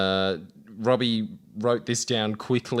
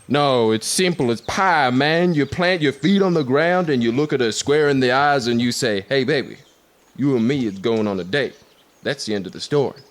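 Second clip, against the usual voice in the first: put-on Robert Downey Jr accent; 2 semitones higher than usual. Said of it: "Can I do the accent".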